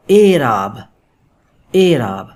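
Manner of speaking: اعراب begun with a long closed 'e', 'AY-raab'; long 'ay' vowel opening اعراب; majhool kasra pronunciation. Shown as a demonstration. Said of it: "اے کی، یہ بن گیا".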